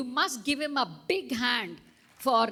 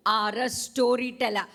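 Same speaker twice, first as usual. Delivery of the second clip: louder, proud declaration; same storyteller voice; 6 dB louder than usual. Shown as a demonstration. Teacher modelling the children's reply, proud and loud. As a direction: say it out proudly to the class. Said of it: "Same voice as I'm using".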